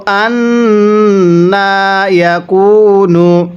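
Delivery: drawn-out chanted recitation; slow Quran recitation. Shown as a demonstration. Teacher recites for students to copy, slow chant. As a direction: stretch the vowels and hum the nasal. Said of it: "কলু".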